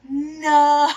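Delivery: loud anguished no; shout. Real, not acted. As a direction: yell it in despair. Reacts to losing the pepper.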